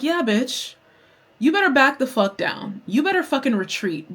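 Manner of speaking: retold triumphant back-off; sassy warning. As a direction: warn them off with attitude.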